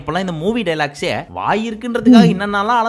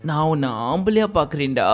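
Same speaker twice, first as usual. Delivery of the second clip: with mood; 3 semitones lower, 4 dB quieter than usual. Shown as a demonstration. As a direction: say it tenderly, lower and softer. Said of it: "அப்படி மூடோட பேச வேண்டிய".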